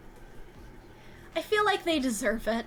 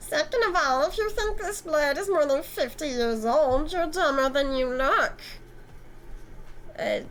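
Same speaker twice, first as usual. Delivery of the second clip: a lightly voiced smug, flirty antique dealer; smug Eric; 4 semitones higher than usual.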